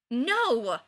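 loud, annoyed no. A narrator's reading. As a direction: snap it, fed up. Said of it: "Ryan says, annoyed".

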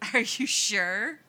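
a high, loud "Really?" fighting a laugh; barely keeping a straight face; strained, holding back laughter. A narrator's reading. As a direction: brother trying not to crack up. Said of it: "clearly strained".

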